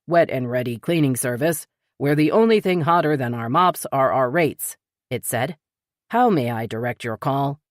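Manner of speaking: flat automated phone voice; recorded robotic greeting. Acted. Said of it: "the robotic voice picked up".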